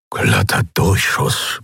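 slow, whispered murmur; breathless murmur. A narrator's reading. Kero after the hit, murmuring in disbelief. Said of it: "murmelte er".

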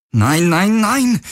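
rising panicked cry. Acted. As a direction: plead as it slips away. Helix fades, he panics.

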